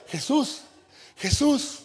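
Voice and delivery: llamado alto y agudo; llama a Jesús con urgencia; excited calling. Retold or imitated. (Pedro llama a Jesús, agudo y fuerte)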